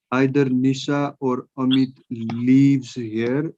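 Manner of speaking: lives stressed with a rising tune. Shown as a demonstration. Teacher stressing lives for the class. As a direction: lean on the word lives. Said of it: "Why lives?".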